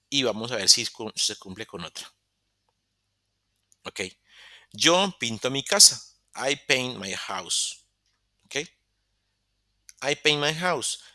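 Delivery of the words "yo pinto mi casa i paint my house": slow and deliberate, word by word; slow model sentence. Shown as a demonstration. Teacher reading the example slowly for students, deliberate pace. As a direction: spell it out slowly for the class. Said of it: "teacher models the example sentence".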